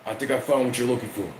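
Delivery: flag him down across the room; calling Roman. Retold or imitated. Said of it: "runs up and says".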